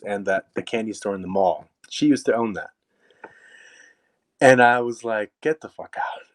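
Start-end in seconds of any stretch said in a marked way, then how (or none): 5.4-6.2 amazed inner reaction. Retold or imitated. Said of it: "in my mind".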